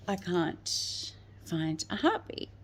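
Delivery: slow, hushed delivery of terrible news; quietly, as if she can barely say it; imitating the doctor's whispered bad news; retold whisper.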